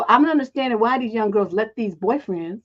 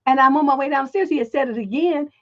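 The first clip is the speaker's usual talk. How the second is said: ordinary delivery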